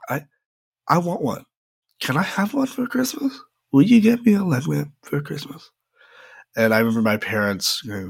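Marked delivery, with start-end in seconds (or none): 0.1-5.7 put-on pleading kid. Kid begging parents for gift.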